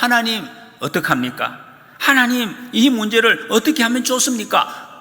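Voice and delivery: high, earnest plea to God; pleading prayer. Acted. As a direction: cry out to God for help. (하나님께 호소하는 모세, 간절하게)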